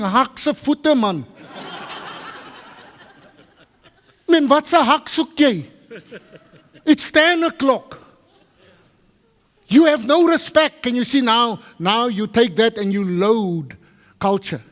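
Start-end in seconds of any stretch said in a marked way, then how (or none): 0.0-10.8 angry inner reply. Retold or imitated. Guest fumes at the late pastor, mock angry. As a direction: fume at him under your breath. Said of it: "And you thinking".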